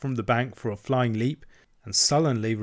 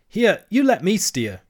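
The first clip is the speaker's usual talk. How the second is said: frightened; 9 semitones higher, 6 dB louder than usual. A narrator's reading. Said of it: "now thoroughly frightened".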